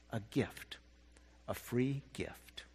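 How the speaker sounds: soft slow whisper on A free gift. Acted. Bunny repeats to himself in wonder, soft slow whisper. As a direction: breathe the words to himself, slow. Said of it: "Then he said it again".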